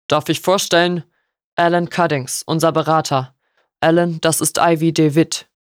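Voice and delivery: a hint of a measured father introducing someone; lightly voiced stern father.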